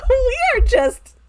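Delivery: high and loud through laughter; laughing. Real, not acted. Still laughing after the joke.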